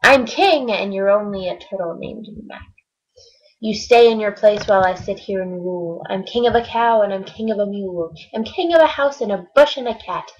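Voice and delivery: lightly voiced haughty king; pompous king. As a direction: lord it over the little turtle. King boasting at Mac.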